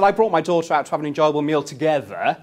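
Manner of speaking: "together" leaned on at the end; firm complaint with "together" stressed. Retold or imitated. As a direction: hit the word "together" hard. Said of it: "emphasis on the words together".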